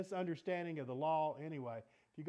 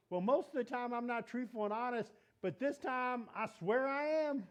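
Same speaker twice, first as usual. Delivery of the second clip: high, lightly acted confession and swear; mock insincere oath; 7 semitones higher, 4 dB louder than usual. Teacher voices a liar swearing this time, mild mockery. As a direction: play the habitual liar promising this once. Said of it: "what you're saying is".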